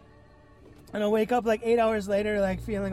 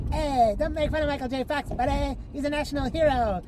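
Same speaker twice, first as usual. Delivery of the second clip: higher, indignant mock Canadian accent; Canadian scientist; 5 semitones higher than usual. Canadian scientist defending Michael J. Fox, indignant mock Canadian accent. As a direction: bristle as a hammed-up Canadian. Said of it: "the first Canadian that came to mind".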